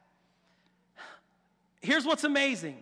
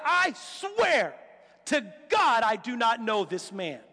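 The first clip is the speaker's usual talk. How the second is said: emphatic sworn oath; 3 semitones lower, slower than usual. Acted. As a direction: swear it as if on the Bible. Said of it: "putting your hand on the Bible and saying".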